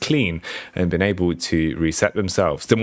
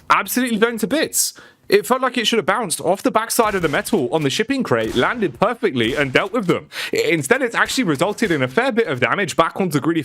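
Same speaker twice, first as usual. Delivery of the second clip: incredulous live caster, pitched up a little; excited esports commentary; 8 semitones higher than usual. Real, not acted. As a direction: cast the blunder in lively disbelief. Excited live match casting.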